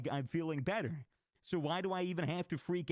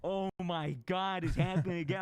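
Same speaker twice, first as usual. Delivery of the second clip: panicky stoned friend; 5 semitones higher, 4 dB louder than usual. Retold or imitated. Friend feeling it return.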